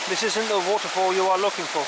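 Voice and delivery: a hint of a Jedi mind trick; mock-solemn film quote; Star Wars quote. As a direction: lightly intone it like a Jedi. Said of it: "Star Wars reference there".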